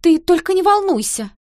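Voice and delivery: shrill-pitched loud fluster; flustered cry. A narrator's reading. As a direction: panicky aunt begging him to stay calm. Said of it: "воскликнула та всполошённо".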